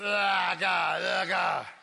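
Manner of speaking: grunting noise.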